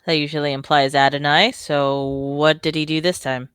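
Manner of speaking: mildly annoyed, drawing out the question; weary hint of annoyance; a little annoyed. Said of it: "he sounds a little annoyed".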